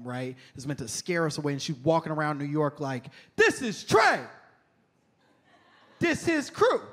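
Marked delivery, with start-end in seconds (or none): 3.4-6.8 high, loud declaimed poetry; mock slam poet, hard punched phrases; hardcore spoken-word poet. Girl walking New York streets reciting, over-intense spoken word. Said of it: "reading this hardcore spoken word poem".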